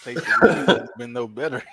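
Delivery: talking around gum; words slurred by chewing gum. Real, not acted. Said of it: "I got gum in my mouth".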